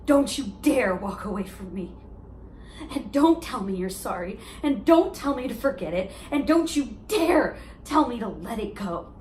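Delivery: indignant warning to an ex; heartbroken confrontation. Acted. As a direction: confront the one walking away, hitting each "don't". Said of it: "perform this monologue".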